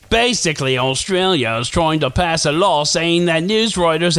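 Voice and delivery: a lightly done Australian accent, self-mocking; bad Australian accent. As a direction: try an Australian accent and mostly miss. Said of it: "this is a terrible accent".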